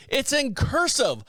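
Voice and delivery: high, slow mock yell of outrage; hammed-up shriek at the florist; retold scream. Woman yelling at the florist over her son's cake, mock scream. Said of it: "The woman screamed at me and said".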